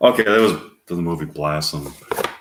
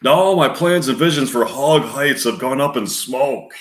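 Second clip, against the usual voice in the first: lamenting; 4 semitones higher than usual. Retold or imitated. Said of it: "He begins lamenting".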